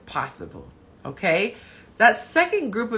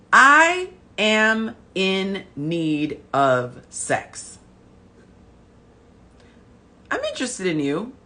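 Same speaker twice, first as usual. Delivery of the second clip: sultry slow voice; much slower than usual. Retold or imitated. Voicing the wolf's meaning.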